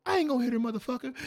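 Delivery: put-on indignant boyfriend. Boyfriend retorts, high pitch.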